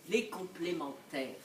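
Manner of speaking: low, soft repeat; brooding. Acted. Wife musing on the drama of couples, low brooding.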